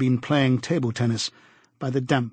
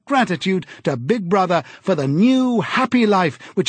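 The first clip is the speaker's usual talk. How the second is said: higher, louder, beaming over our new happy life; eager telescreen announcer; 7 semitones higher, 4 dB louder than usual. A narrator's reading. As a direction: sell new happy life with state joy. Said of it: "an eager, youthful voice".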